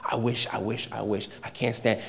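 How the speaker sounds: low, very soft muttering to oneself; quiet murmuring. Acted. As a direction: grumble under your breath, as if only in your heart. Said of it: "Murmuring is a quiet mutter".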